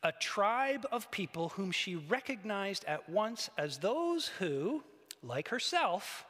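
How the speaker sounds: slow, measured story narration; unhurried, solemn reading with drawn-out words; dramatic literary reading. Acted. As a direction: read the vision aloud, savouring each phrase. Reads on from the story.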